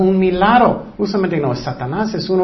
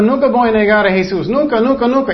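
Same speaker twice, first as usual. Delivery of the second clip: quick, higher mock boast full of pride; proud boast; 4 semitones higher, faster than usual. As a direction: rattle off the proud vow of loyalty. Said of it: "Es orgullo". (jactancia orgullosa, rápida y más aguda)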